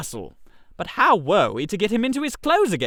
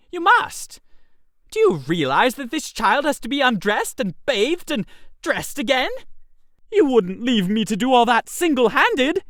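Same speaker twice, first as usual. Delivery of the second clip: desperate pleading; 4 semitones higher than usual. Acted. Reggie begging Freddy not to desert him, frantic high pleading. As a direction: plead faster and higher as panic rises.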